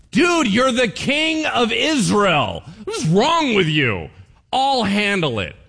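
high, loud, slow scolding queen; scolding Jezebel. Retold or imitated. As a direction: take charge and belittle a weak husband. Jezebel scolds husband king.

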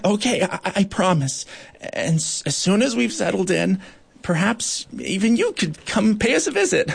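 high, shy little voice. Acted. Bark beetle inviting Goliath, high and shy. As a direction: offer it bashfully. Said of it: "smiled shyly".

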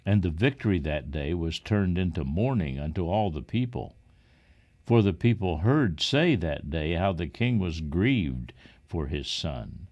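ordinary delivery, nothing marked

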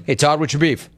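normal talking voice

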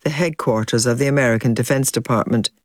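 measured, scripted presenter read; documentary link read to listeners; news documentary narration. Acted. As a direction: narrate the events as a serious news account.

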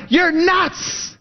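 high, mock scoff; scoffing friend. Old friend dismissing the believer, mocking high scoff. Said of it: "And they're like".

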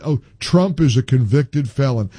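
mock caller, stress on Trump; scornfully quoting a caller he dislikes; mocking quote. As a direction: parody the caller's line. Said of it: "that says".

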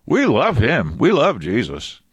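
high, squeaky alien gushing. Acted. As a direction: gush like a cheerful little alien. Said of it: "And they go like".

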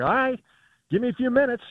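high-pitched putting-them-off voice; mock reluctant reply. Golf reporter answering a request to hustle over, mock reluctant.

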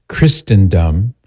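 Christendom with the T sounded, Christ-en-dum; T pronounced. Retold or imitated. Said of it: "Why isn't it pronounced".

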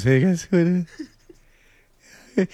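high, creepy teasing imitation; Tyler Milliken's cousin. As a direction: sly voice holding back a laugh. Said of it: "That's my invitation to Tyler Milliken's cousin".

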